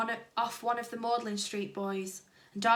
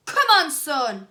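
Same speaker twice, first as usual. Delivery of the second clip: loud, slow rallying cheer; cheering shout; 4 semitones higher, 11 dB louder, slower than usual. A narrator's reading. Dad cheering his son from the crowd. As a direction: urge your son on. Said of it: "shouted Dennis's dad".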